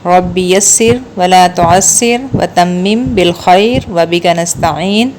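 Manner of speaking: very slow, devout recitation; slow Arabic supplication before class; recited prayer. Real, not acted. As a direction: pray it word by word, unhurried. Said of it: "دعا پڑھتے ہیں".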